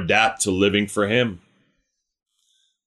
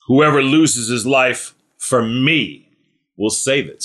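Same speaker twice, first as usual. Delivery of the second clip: slow reading. Shown as a demonstration. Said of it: "'Cause no one talks like this".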